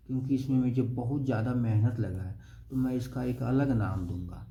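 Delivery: lightly imitating scientists with attitude; a hint of a self-important scientist refusing; mild mock attitude. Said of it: "वो attitude वाले scientist थे". (हल्के attitude वाले scientist की नकल)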